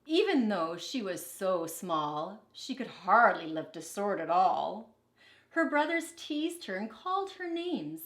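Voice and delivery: put-on lively picture-book reading for kids; storybook read-aloud. A narrator's reading. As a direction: read it like a teacher to her class. Teacher reads picture book aloud.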